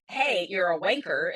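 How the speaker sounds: lightly put-on British accent; hint of amateur British accent; attempted British accent. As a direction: try your best British greeting. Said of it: "That's my British. That's the best British".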